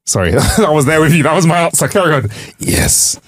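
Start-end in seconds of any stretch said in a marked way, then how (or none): 2.6-3.2 breathed right into the microphone; hushed mock-rapt whisper; close-mic whisper. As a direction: whisper it as a playful, drawn-in listener. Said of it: "You can hear how close I am to the mic".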